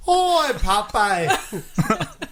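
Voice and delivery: slowed, lightly voiced Popeye. Asking if Popeye is Irish, doing him. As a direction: drawl the name like the cartoon sailor. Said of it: "Is Popeye an Irish name?".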